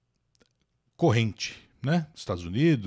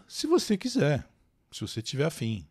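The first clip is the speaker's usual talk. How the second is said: normal talking voice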